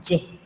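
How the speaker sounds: "Y" said ye, like a Spanish Y; Guaraní J sound. Shown as a demonstration. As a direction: say "Y" as ye, not too dragged. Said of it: "La J suena como la Y española". ("Y" dicha ye, no tan arrastrada)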